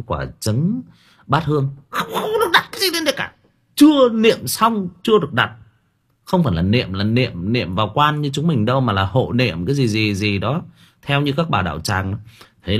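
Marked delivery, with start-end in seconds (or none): 1.9-10.6 high, fast, shrill orders; bossy temple lady. Retold or imitated. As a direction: fuss and forbid like a bossy old lady. Temple lady bossing family.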